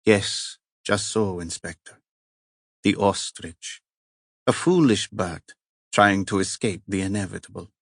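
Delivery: "The ostrich" said with a light Italian lilt; heavy Italian accent. Acted. Cardinal repeats the inspector's word "The ostrich", lightly Italian-accented. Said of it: "the heavy accent".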